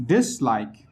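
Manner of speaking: DIS in dislike stressed over like; primary stress on DIS, weaker on like. Shown as a demonstration. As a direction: lean on the first syllable, DIS-like.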